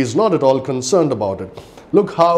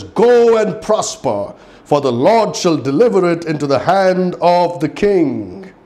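sarcastic; 4 semitones higher than usual. Retold or imitated. Micaiah mocking the king's wishes, sarcastic. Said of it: "being very sarcastic".

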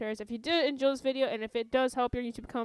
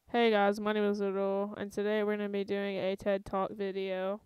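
lower, restrained youtuber intro; slowed-down intro; 3 semitones lower than usual. Shown as a demonstration. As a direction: hold back and deliver it evenly. Calm take against hyped one.

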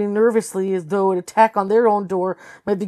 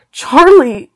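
high, louder call of the name; urgent cry; 7 semitones higher, 8 dB louder than usual. A narrator's reading. Carlton calling Charlie in distress, urgent cry. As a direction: cry out to grab her.

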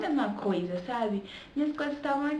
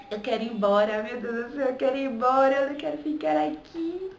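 louder, begging to go home; desperate pleading; 4 dB louder than usual. Retold or imitated. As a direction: whine it like you can't stand another day.

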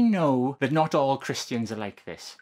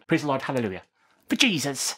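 preacher exclamation; faster than usual. Acted. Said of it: "I'm doing my best preacher voice here".

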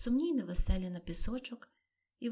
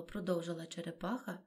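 ordinary delivery

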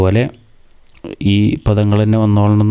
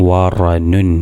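slow blending; much slower than usual. Shown as a demonstration. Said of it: "അങ്ങനെ കൂട്ടി വായിക്കാം".

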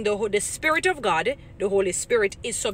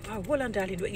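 gentle woman's voice; 6 dB quieter than usual. Retold or imitated. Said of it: "they're not gonna speak like us as women".

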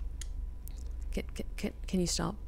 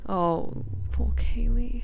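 whisper; 6 semitones higher, slower than usual. Real, not acted. Whispering in a horror game.

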